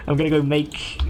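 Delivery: high villain line cracking into laughter; laughing take of the villain's line; laughing through it. Real, not acted. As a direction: try the line while still giggling. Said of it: "And he goes".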